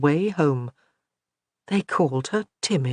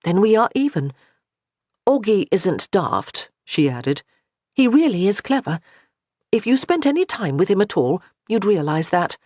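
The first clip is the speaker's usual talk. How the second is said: a hint of a proud lady, raised up a little and firm; a touch of a wounded noblewoman daring her to speak plainly; lightly voiced proud young lady; 4 semitones higher than usual. Johanna challenging Glynis to speak to her face, lightly raised and firm.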